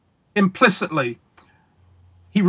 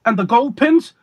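Slidini impression; 4 semitones higher than usual. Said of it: "I'll give you my Slidini impression".

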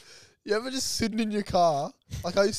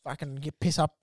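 put-on low, mumbled Aussie bloke accent; broad Aussie accent; 5 semitones lower than usual. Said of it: "an Aussie will walk past".

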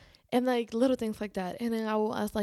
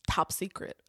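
secret whisper. Real, not acted. Playful confession of secrecy.

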